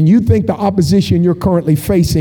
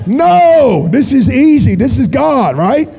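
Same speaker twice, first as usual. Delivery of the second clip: emphatic objection; 5 semitones higher, slower than usual. Acted. Preacher dismissing the idea that God finds it tough, emphatic objection. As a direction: cry out in mock protest, higher pitched. Overrules imagined hesitant heaven.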